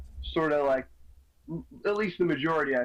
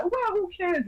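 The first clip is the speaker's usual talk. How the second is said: mock dismissive. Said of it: "quoting dismissal".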